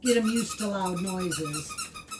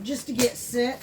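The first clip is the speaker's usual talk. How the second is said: normal talking voice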